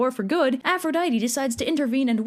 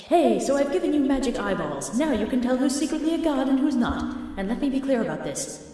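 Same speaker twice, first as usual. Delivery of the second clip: mock Athena; 2 semitones higher than usual. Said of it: "So she pops down to Diomedes like".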